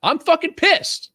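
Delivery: high, slow hammed-up rage; mock fury. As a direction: put on a fake furious rant, drawn out. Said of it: "Is that how I do it?".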